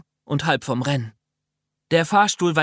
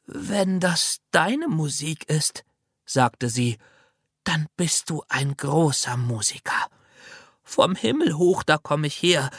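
put-on old lady voice. Old lady character speaks.

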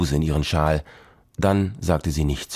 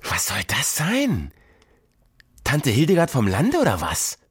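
hissed scorn; 6 semitones higher than usual. Acted. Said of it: "fauchte Tini".

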